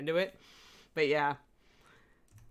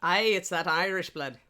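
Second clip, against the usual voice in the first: put-on light Irish accent; a touch of put-on Irish. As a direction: slip into an Irish brogue. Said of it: "I can channel his, uh, his accent".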